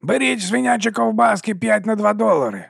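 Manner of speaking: high hawker cry; hawker's call. Acted. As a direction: call the bargain out to the crowd. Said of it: "гукнув відривач".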